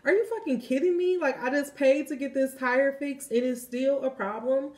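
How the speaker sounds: high-pitched, incredulous outburst; mock-furious "are you kidding me"; exasperated disbelief. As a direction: retell the moment you lost patience, pitch jumping up. Retold outburst over broken tire.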